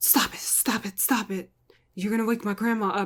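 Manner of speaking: unhinged, fidgety, repeated muttering under the breath. Retelling how the woman answered the door, imitating Gina muttering fidgety. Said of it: "muttering to herself and fidgety".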